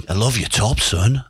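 lightly imitated manager's accent; a hint of the old boss's accent; Sir Bobby. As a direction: mimic the gaffer's accent paying a compliment. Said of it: "I'll do his accent".

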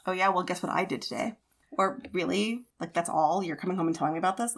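a put-down, lightly imitated; dismissive ex. Mocking ex-husband brushing off her news, mild sneer. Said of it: "take you down a peg kind of person".

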